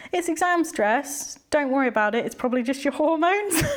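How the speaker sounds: high-pitched mock-reassuring brush-off; breezy dismissal. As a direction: imitate a counsellor lightly waving the problem away. Counsellor brushes her off, retold.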